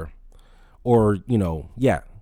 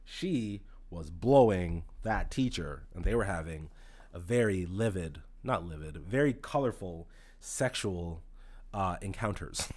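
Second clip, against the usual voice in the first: gossipy hush; 9 dB quieter, slower than usual. Retold or imitated. Telling the scandal gossip.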